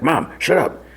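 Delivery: high-pitched imitation of an embarrassed son; mock exasperated outburst. Son silencing his embarrassing mom, exasperated imitation.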